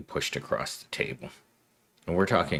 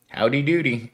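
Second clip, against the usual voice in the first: sing-song howdy doody; 6 semitones higher than usual. Shown as a demonstration. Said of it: "I love that expression".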